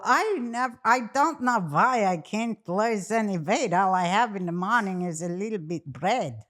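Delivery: hammed-up old-country Jewish grandma accent; badly faked immigrant grandmother accent; grandmother's accent. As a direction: imitate grandma's thick accent, protesting innocently. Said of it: "I'm doing a horrible accent".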